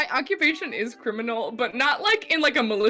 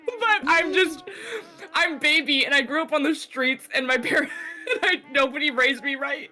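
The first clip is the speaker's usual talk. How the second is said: laughing mock sob story. Character sob story while laughing.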